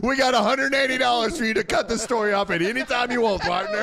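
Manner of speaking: high, hammed-up drawling host; mock cowboy host. Joking about cutting the story short, high hammed-up host voice. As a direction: tease him like a folksy host, voice up high. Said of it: "I thought he was about to say".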